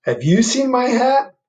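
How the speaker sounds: high, slow, plaintive bear. Acted. Bear asking the animals for his hat, high and slow. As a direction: ask like a lost, patient bear.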